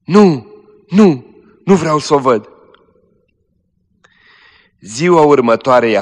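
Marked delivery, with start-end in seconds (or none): 0.1-2.5 high, loud piercing refusal; dying girl cries out, high and loud; piercing cry. Acted. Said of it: "strigând cu glas pătrunzător".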